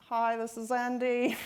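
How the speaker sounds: a barely-there Australian accent, half-hearted imitation; lightly put-on Australian accent, mock app greeting; Andy in a terrible Australian accent. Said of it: "That was my really terrible Australian accent".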